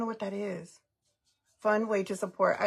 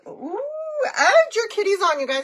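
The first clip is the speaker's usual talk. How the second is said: higher, louder excited calling out; 12 semitones higher, 7 dB louder than usual. Real, not acted. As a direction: call out to them, thrilled. Excited call to viewers.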